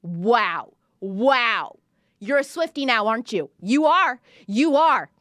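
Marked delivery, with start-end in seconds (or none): 3.6-5.1 excited. Real, not acted. Teasing listener as Swiftie.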